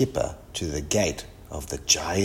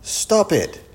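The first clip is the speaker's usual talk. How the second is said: high-pitched protesting shout; 12 semitones higher, 4 dB louder than usual. A narrator's reading. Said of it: "shouted Kipper".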